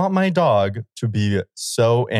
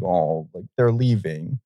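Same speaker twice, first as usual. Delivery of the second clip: sad dog; 3 semitones lower, slower than usual. Retold or imitated. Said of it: "acting all sad".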